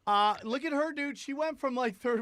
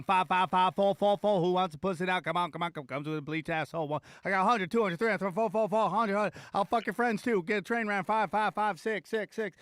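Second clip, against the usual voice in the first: auctioneer. Pretend. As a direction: call the bids like an auctioneer. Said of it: "I'd be like an auctioneer going".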